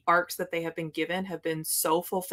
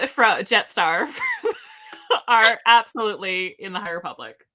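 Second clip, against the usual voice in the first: loud, halting words broken by laughter; laughing; 5 dB louder than usual. Real, not acted. Host naming favorite obscure characters, unable to stop laughing. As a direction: crack up on the name, then push on. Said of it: "can't even say his name without laughing".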